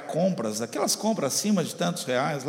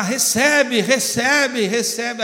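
raised-voice mock shout that eases on the last cry; retold repeated shouting; 4 semitones higher, 4 dB louder, much slower than usual. Receptionist reports the pastor's endless cries, mock shouting. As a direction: mimic a pastor's insistent cries, higher-pitched. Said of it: "ele não para de gritar".

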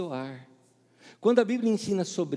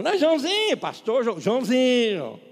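teasing insistence; 7 semitones higher, 7 dB louder than usual. Retold or imitated. Insists on nickname.

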